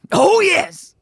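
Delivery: loud, high triumphant shout. A narrator's reading. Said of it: "shouted the miller".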